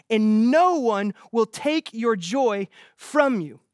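reads the verse slowly and deliberately; solemn scripture reading, drawn out; slow, weighty reading. Acted. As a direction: let each phrase land, unhurried. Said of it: "I want you to hear this".

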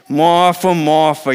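firm, summoning call; challenging. Shown as a demonstration. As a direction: call her out, gently but pointedly. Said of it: "he's gonna be challenging you".

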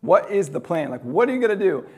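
hammed-up alarm, pleading for a plan; mock panic. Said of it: "the disciples start freaking out".

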